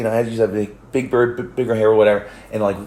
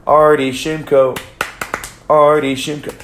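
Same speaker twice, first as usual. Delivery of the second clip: calling out; 5 semitones higher, 5 dB louder than usual. Retold or imitated. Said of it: "and I hear".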